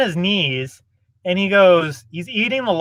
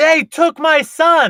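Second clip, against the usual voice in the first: mock, high, drawn-out scream at top of lungs; 9 semitones higher, 3 dB louder than usual. Retelling how a man sitting with them suddenly began: imitating a man screaming. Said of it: "he just starts screaming".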